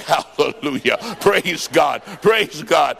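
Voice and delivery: exultant shouts after a laugh; preacher shouting praise; shouted praise. Real, not acted. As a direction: call it out to the crowd.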